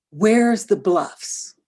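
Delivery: very slow, drawn-out bewildered question; disoriented son. Retold or imitated. Lost teenage son asking his mother, slow and bewildered. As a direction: ask it lost and dazed.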